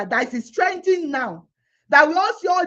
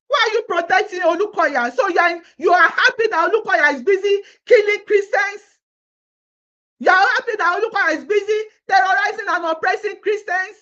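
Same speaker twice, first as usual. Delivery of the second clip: tearful angry outcry; 3 semitones higher, 4 dB louder than usual. Real, not acted. Crying, shouting accusation.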